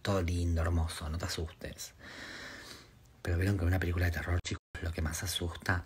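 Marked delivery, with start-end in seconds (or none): 0.0-1.9 self-reassurance. Pretend. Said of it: "De última digo, tipo".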